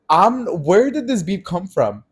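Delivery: retold bewilderment. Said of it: "I was so caught off guard".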